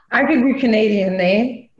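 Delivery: light joking Canadian accent with "eh". Shown as a demonstration. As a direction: play at sounding Canadian. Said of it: "I got a bunch of accents".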